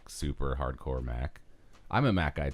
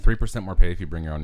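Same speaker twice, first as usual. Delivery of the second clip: surprised echo; 2 semitones higher, 11 dB louder, faster than usual. Real, not acted. Incredulous echo.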